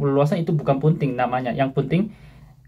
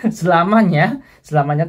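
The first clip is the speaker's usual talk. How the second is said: laughing; 4 semitones higher, 5 dB louder than usual. Real, not acted. Joking correction, laughing.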